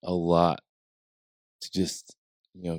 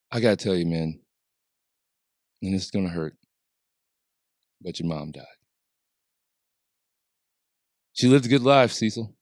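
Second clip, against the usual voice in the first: hammed-up gentle bad-news voice; calming voice. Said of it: "does that calming voice of his".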